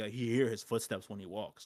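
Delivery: ordinary talk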